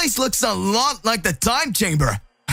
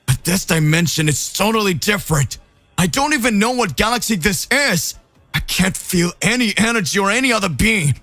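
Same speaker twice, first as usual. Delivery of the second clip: frustrated trapped hero; 4 semitones higher than usual. Acted. Goku trapped and furious.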